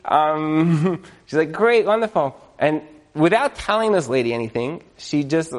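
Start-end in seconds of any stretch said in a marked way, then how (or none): 1.5-2.4 forced politeness. Retold or imitated. Ex-wife fakes politeness.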